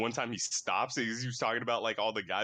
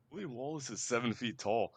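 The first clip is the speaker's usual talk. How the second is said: movie quote in a put-on Scottish accent; lightly acted Scottish accent. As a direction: try out a Scottish brogue. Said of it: "Scottish accent. Like, I'm really trying to think".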